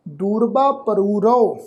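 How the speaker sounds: ਦੂਰਬਾ ਪਰੂ ਰਓ read slowly, each word clearly apart; slow careful reading. Shown as a demonstration. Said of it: "spells the word letter by letter".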